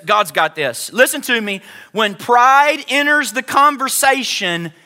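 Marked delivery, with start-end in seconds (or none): 0.0-0.9 low, settled assurance; peaceful. Acted. Preacher answering Pride as Peace, low and calm. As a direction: let it sink down calmly. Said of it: "Peace says".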